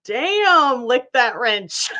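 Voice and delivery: words breaking into a laugh; amused, laughing. Real, not acted. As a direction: say it on the edge of a laughing fit. Cracking up at chat.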